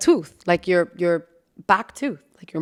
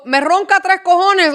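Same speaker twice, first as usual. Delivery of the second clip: emphatic; 9 semitones higher, 5 dB louder than usual. Retold or imitated. Emphatic quote.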